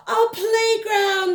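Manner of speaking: high, slow joyful shout; shouted together. Acted. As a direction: call it out together with delight. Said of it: "they shouted together".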